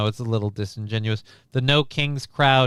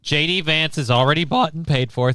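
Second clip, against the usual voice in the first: higher, with an accidental crack; 5 semitones higher than usual. Real, not acted. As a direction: voice cracking mid-sentence. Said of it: "Thank you, voice crack".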